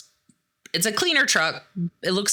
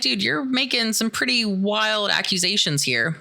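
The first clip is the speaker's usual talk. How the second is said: retold disbelief; 6 semitones higher than usual. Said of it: "They don't believe any of this".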